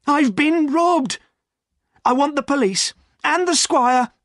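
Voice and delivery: frantic loud call; crying out. A narrator's reading. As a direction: plead loudly for help. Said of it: "cried Silas".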